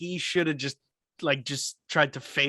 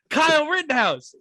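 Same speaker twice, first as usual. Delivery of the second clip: gym woman quoted; 9 semitones higher, 4 dB louder than usual. Retold or imitated. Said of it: "and she goes".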